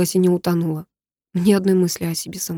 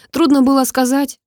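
much higher, louder demanding question; angry reproach; 7 semitones higher, 4 dB louder than usual. Acted. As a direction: press her hard for an answer. Repeated reproach. (сердитый упрёк)

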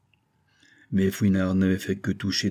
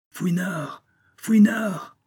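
put-on very high, loud call of a young girl; shrill girl's cry; 11 semitones higher, 4 dB louder, much slower than usual. A narrator's reading. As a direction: call him from across the street in the rain. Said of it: "cria une voix aiguë". (Susan appelle Fouinard, voix aiguë)

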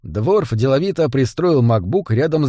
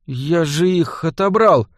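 helpless squeak; 3 semitones higher, slower than usual. A narrator's reading. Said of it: "беспомощно пискнул".

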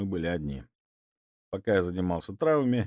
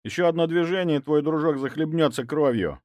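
threatening; 8 semitones higher, 4 dB louder than usual. A narrator's reading. Threat at knifepoint.

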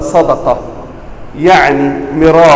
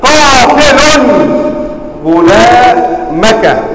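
very slow قاتل غلامك with each syllable stretched; نطق بطيء جدا لقاتل غلامك; slow drawn-out claim; 6 semitones higher, much slower than usual. Retold or imitated. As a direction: stretch out قاتل غلامك as if setting a grammar trap. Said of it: "وقال له".

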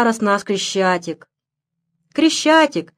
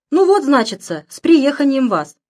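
forced cheer; 4 semitones higher, 3 dB louder than usual. Acted. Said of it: "говорит нарочито весело".

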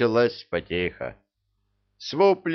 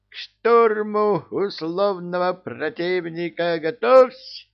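high, loud battle command; commanding shout; 10 semitones higher, 4 dB louder than usual. A narrator's reading. King ordering his army to storm, shouting. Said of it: "скомандовал король".

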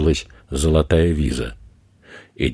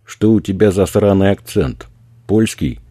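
raised mocking voice; 5 semitones higher, 5 dB louder than usual. A narrator's reading. Robber mocks the accent.

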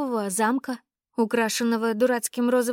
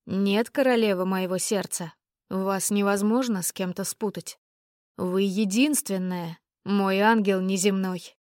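rapturous tone; 3 semitones lower than usual. Acted. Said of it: "произнёс герцог восторженным тоном".

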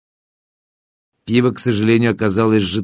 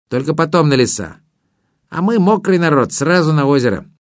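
higher, lightly voiced water sprite; a hint of a chatty river spirit; 6 semitones higher than usual. Water spirit explains the bet.

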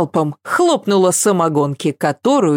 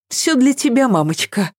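babbling; 8 semitones higher than usual. A narrator's reading. Daughter hiding behind her father, meekly babbling. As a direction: sheepishly lisp it out. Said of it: "пролепетала Ася".

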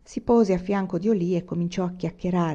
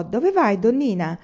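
mock shout, higher and louder; calling out; 3 semitones higher, 4 dB louder than usual. Big coachman calls out to the woman on the road, hammed-up shout. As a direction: call out to her from the coach. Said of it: "la vide e gridò".

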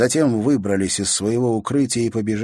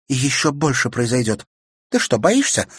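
higher, mocking challenge; taunting; 6 semitones higher, 4 dB louder than usual. A narrator's reading. Sister taunting brother about being afraid. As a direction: goad him.

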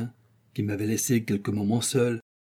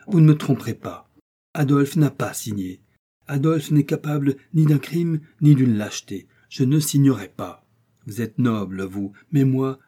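defiant outcry. Acted. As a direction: fling the refusal back at him. Heroine defies the uncle.

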